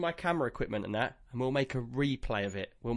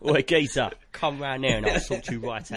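mock-threatening English geezer accent; geezer talk; 3 semitones lower than usual. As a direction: play a London-style geezer, half laughing. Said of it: "says you speak geezer".

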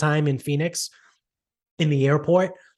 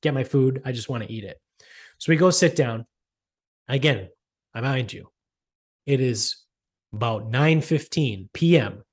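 usual speaking voice

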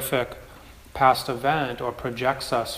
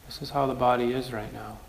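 "This is how the body is right now", softer and accepting; soft repeat; 3 dB quieter, faster than usual. Shown as a demonstration. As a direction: let it settle, gentler. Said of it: "repeated softer".

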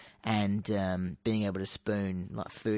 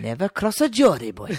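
louder, higher Geordie accent; 6 semitones higher, 6 dB louder than usual. Shown as a demonstration. Showing a proper Northern accent to co-host: Geordie accent. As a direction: punch it out like a proud Newcastle lad. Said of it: "a bit more like this".

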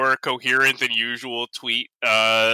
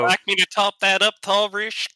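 higher, hammed-up Russian waitress; 8 semitones higher than usual. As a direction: play the waitress pitched up with a fake Russian lilt.

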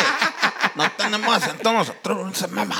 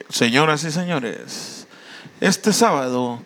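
slow, lower announcer voice; mock radio announcer; 4 semitones lower, slower than usual. Host parodying a show announcement to friends, mock announcer. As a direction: announce the act grandly, drawing it out.

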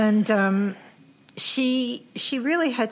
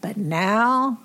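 ordinary delivery

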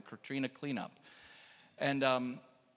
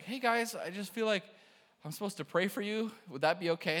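higher, hesitant retold approach; nervous, tentative asking; 4 semitones higher than usual. Nervous young man offering prayer to two strangers, tentative and higher. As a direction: ask as if unsure you are welcome. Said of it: "I was so nervous".

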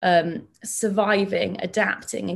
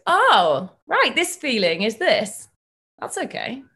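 lightly voiced child having it click; a slow, higher-pitched "oh, I get it"; child's sudden realisation; 4 semitones higher, 3 dB louder, slower than usual. Child suddenly understanding a feeling the caregiver named, mild dawning realisation. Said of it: "the baby to the child suddenly goes".

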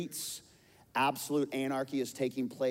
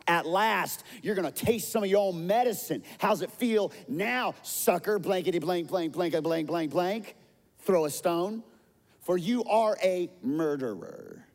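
high, loud mocking jeer; taunting curses; 6 semitones higher, 4 dB louder than usual. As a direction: gloat and curse the king. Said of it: "Shimei goes on to say".

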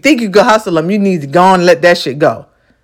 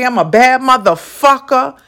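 self-assured swagger; 3 semitones higher than usual. Shown as a demonstration. Telling yourself in the morning mirror, with swagger. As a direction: say it like you fully believe it. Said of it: "say it with that tone".

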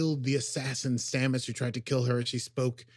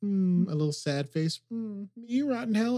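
mock smirking captain; 10 semitones higher, 3 dB louder than usual. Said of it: "She makes, like, a".

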